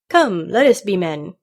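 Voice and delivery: loud, slow catchphrase; loudly drawn-out parrot saying; stereotyped witticism. A narrator's reading. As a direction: proclaim it like a well-worn slogan. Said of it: "added his stereotype witticism".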